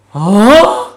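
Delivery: a loud, high huh of disbelief; loud incredulous huh. Acted. To the imagined viewer, a loud disbelieving huh. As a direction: bark it like the question is absurd.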